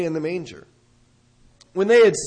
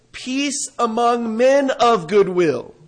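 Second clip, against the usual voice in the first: slow reading; 3 semitones higher, slower than usual. Shown as a demonstration. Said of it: "it may sound something like this".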